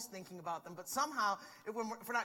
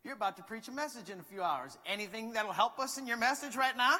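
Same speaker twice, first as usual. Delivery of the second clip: sweet teasing; 3 semitones higher, 5 dB louder than usual. Retold or imitated. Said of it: "in a very sweet way".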